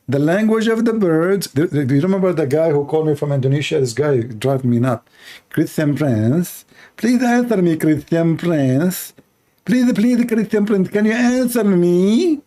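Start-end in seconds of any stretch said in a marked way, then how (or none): 5.5-12.4 lightly put-on pleading caller, drawn out; a hint of a whiny caller begging for an answer; mocking caller voice. Imitating the Indonesian caller begging Christian Prince, lightly whiny. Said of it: "they speak like that".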